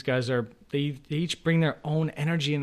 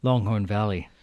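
mock ad read; 3 semitones lower than usual. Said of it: "pause for a commercial break".

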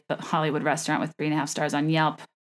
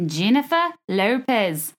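amateur Australian accent; 3 semitones higher, slower than usual. Shown as a demonstration. Host replaying her earlier attempt, Australian accent. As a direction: put on a shaky attempt at Australian. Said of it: "graced you with my Australian accent".

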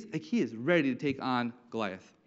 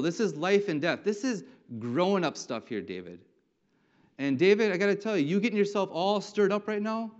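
big brother's rebuke. Acted. Older brother tells David to stay out, stern rebuke. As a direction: put the kid brother in his place. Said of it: "David is rebuked by big brother".

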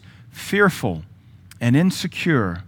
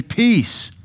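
calm the storm; 9 semitones higher than usual. Acted. Jesus commanding the storm.

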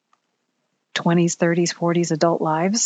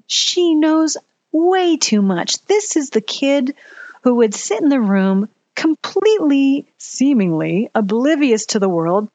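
higher, louder, voice tight with emotion; choked up; 3 semitones higher, 3 dB louder than usual. Real, not acted. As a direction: push through a lump in the throat. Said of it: "I have a emotional frog in my throat".

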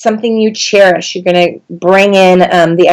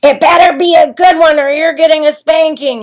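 a hint of a stern mom, pitched higher; mom's warning; 8 semitones higher than usual. Mom calling up to the hurt child, lightly stern voice. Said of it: "all I hear is my mom saying".

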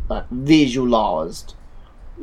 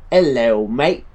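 put-on Australian greeting, punched a little louder; Australian accent; 4 dB louder, much slower than usual. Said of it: "No, that's my Australian".

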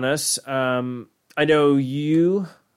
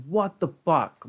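disbelief; 4 semitones higher, much slower than usual. Retold or imitated. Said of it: "And you're just like".

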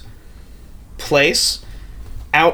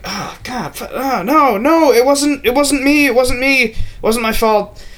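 acted panicked pleading; 9 semitones higher than usual. Tamino protesting as a spectre whispers in his ear, acted panic. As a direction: plead tearfully, hammed-up.

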